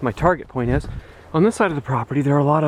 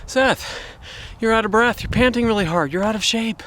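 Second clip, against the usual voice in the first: higher, needling viewer imitation; teasing viewer voice; 9 semitones higher than usual. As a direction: poke fun like a skeptical viewer. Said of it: "Now you might be going".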